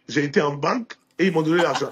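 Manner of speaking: laughing through the punchline; deadpan joke that breaks into a laugh. Real, not acted. Telling the boss a joke answer, laughing.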